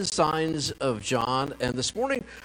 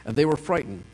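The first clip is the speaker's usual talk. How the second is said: measured, formal Bible reading; scripture reading. Acted. Pastor reading John six aloud to the congregation, measured. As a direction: read the passage steadily to the congregation.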